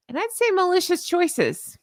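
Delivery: deliberate accusing stress; pointed emphasis. Real, not acted. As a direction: lean hard on "malicious".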